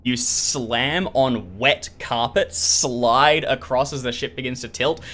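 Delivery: vivid, punchy scene-setting; dramatic game master narration. Acted. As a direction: drive the action along, leaning on each impact.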